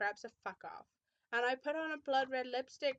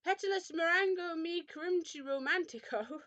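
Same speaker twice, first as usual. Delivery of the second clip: high, raised-voice theatrical spell; screamed incantation; 6 semitones higher, 4 dB louder than usual. A narrator's reading. He screams a made-up spell, theatrical scream. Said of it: "Then he screamed".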